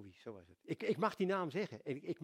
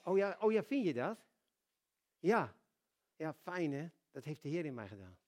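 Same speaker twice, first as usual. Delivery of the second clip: cheerful acceptance. Shown as a demonstration. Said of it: "dan kun je zeggen".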